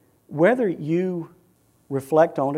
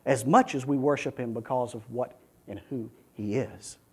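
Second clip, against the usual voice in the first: ordinary delivery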